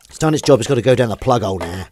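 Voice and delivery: loud, firm, final. Shown as a demonstration. Telling viewers the washing water goes, loudly. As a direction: declare it with mock ruthlessness.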